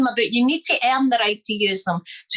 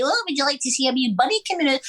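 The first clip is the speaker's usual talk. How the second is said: fast, light higher voice; funny voiceover; 4 semitones higher, faster than usual. Retold or imitated. Dubbing an old man in a film, fast twee voice. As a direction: rattle it off in a silly twee voice. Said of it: "And I'd be like".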